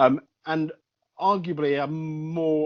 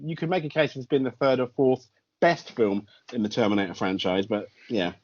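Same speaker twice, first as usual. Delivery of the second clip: reluctant verdict that loses conviction; unconvinced praise; 5 semitones lower than usual. Real, not acted. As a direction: concede it half-heartedly, sinking in pitch. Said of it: "your voice says different".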